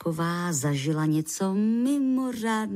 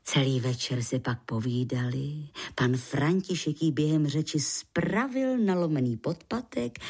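ordinary delivery

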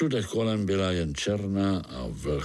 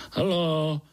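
little spider voice; 6 semitones higher than usual. A narrator's reading. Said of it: "zeptal se Pája".

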